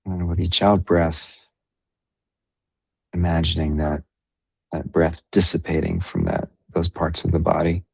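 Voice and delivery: unhurried meditation guide, long pauses between phrases; guided meditation. Real, not acted. Meditation leader guiding listeners into breath and body awareness, guided meditation. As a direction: ease them gently through the breathing, leaving space.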